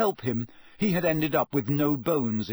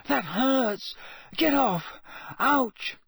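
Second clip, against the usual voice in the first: pained protest; 11 semitones higher, slower than usual. A narrator's reading. Harry poked in the side, high pained protest. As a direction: fend off someone jabbing you.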